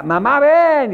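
high, loud call for mom in a cave; child shouting. Retold or imitated. A boy in the caves shouting for his mom, loud call. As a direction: yell it out like a kid calling mom. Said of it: "Y el niño grita".

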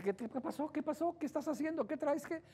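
a partner startled by the change; surprised partner. Retold or imitated. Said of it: "la pareja dice".

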